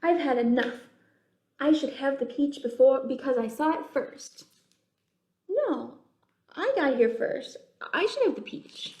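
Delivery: put-on a touch of cross, childish squabble; mock bickering. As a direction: stake your claim sulkily. Bugs start quarreling.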